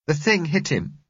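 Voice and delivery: put-on high-pitched child's voice; upset little girl. A narrator's reading. Girl tells driver of the attack, upset child. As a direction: tell it as a distressed small girl.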